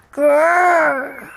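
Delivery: put-on a little boy's playful dinosaur roar; dinosaur growl. George playing dinosaur, growling at his family: playful growl.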